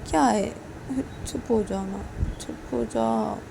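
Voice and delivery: slow, drawn-out pleading; acted wheedling apology; soothing apology. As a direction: coax someone tenderly out of crying. Soothing crying spouse, begging forgiveness.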